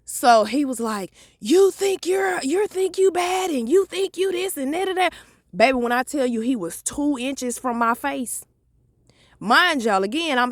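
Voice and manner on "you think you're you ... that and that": mock-high cop taunt; mocking the officer. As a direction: mimic the cop's taunt, pitched up.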